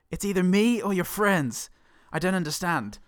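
high mock-whiny sister voice; acted sister. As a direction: whine it like a sulky sister. Sister quotes angry line.

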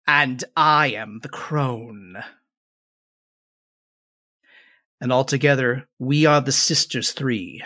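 slow, drawn-out crone; a lightly voiced ancient witch; old crone voice. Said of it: "And the last one".

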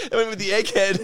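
chuckling through the joke; laughing. Real, not acted. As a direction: laugh out the punchline.

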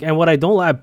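brief mock Toronto accent. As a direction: lightly imitate the Toronto accent. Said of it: "talked to me like that".

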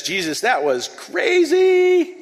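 high, loud shaken cry of relief; high slow shout, still rattled; Peter shouting in shock. Acted. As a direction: yell it like a man just pulled from the sea. Peter after nearly drowning.

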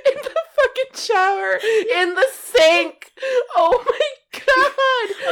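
loud, high, crying with laughter; helpless laughter. Real, not acted. Telling of vomit in the sink, helpless laughter. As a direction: wail it out through real laughter.

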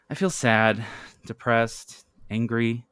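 halting, word by word, sinking at the end; defeated. Acted. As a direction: admit it haltingly, as if given up. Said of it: "Janet says defeatedly".

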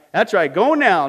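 loud, high auction patter; auctioneer. Retold or imitated. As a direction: sell it like an auctioneer. Pardoner auctioning forgiveness prices.

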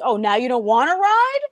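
high put-on mocking dad voice, indignant; a dad ranting in a high squeaky voice. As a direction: squeal it like an outraged parent. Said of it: "And he goes".

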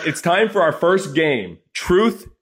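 drawn-out shouted game title; game show announce. Acted. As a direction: boom it out like a host announcing the round. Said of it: "announcing the game segment".

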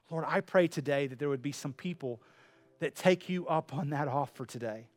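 pastoral prayer. Acted. Closing prayer.

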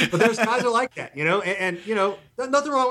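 real laughter bubbling through the words; laughing while talking. Real, not acted. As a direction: let the laugh leak into every phrase, up high.

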